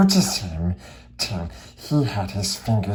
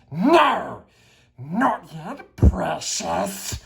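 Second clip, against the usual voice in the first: higher, whining creature voice; Gollum answering; 8 semitones higher, much slower than usual. Acted. Gollum refuses Bilbo in a high whining creature voice. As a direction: whine it to your precious. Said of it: "Gollum answered".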